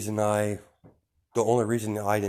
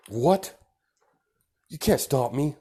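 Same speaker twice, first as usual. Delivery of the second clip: higher, louder incredulous outburst; acted teen defiance, pitched up and loud; indignant protest; 6 semitones higher, 5 dB louder, slower than usual. Child protesting to mother about a punishment, indignant.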